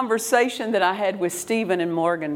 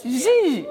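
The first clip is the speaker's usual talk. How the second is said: mock angry baby squeal; 5 semitones higher than usual. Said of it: "He gets mad like this".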